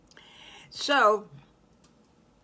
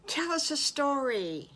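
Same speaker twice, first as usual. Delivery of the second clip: high-pitched little piglets pleading; piglet children; 7 semitones higher than usual. A narrator's reading. Piglets asking Mommy for a story, high childlike plea. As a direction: ask like eager children, high and sliding down.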